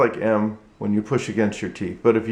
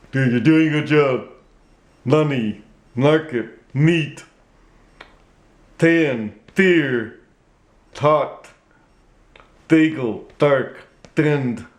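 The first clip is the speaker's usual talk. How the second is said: ventriloquist dummy voice with the lips still; the puppet saying test words; 3 semitones higher, slower than usual. Shown as a demonstration. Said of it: "I'll have Mister Goodman say these words".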